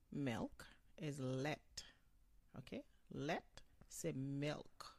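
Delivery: "lait" spelled out slowly, every letter sounded; teacher drawing out "lait" for learners; slow careful pronunciation. Shown as a demonstration. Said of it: "nou pwononse ch-, tout lait yo".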